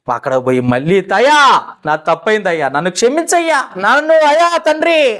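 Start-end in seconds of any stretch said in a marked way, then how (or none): 1.1-5.2 imitating begging cry. Israelites begging the father to forgive, higher wailing cry. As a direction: cry out for forgiveness, rising on అయ్యా. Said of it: "మొల మొల మొరపెట్టుకున్నారు".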